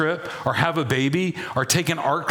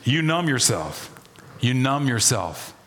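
measured, deliberate repeat with falling endings; deliberate, evenly weighted phrasing; slower reading; 2 semitones lower than usual. Shown as a demonstration. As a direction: read it slowly and let it land. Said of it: "Let me read it slower".

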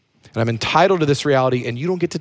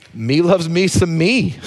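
quoting Terrell Owens; 4 semitones higher, slower than usual. Retold or imitated. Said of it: "In the words of the modern philosopher Terrell Owens".

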